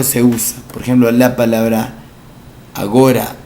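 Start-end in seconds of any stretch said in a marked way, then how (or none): 2.7-3.3 put-on agora said as the old form of ahora; archaic form. Shown as a demonstration. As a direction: say agora with a hard g. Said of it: "agora está mal". (forma arcaica agora)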